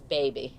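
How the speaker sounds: put-on mild Southern baby; Louisiana baby. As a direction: say baby like her Louisiana cousins. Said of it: "when they say baby".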